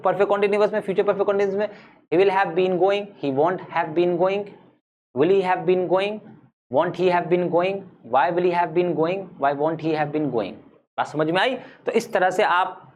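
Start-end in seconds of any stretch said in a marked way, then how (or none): 2.1-10.6 rhythmic, even-toned verb drill; grammar drill recitation. Shown as a demonstration. Teacher drilling forms of go for students, rhythmic recitation. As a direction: rattle off the forms in a steady chant.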